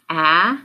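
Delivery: a as the short vowel in lack; isolated vowel sound. Shown as a demonstration. Teacher naming the vowel to swap, a said alone as short "aah". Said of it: "change the vowel sound".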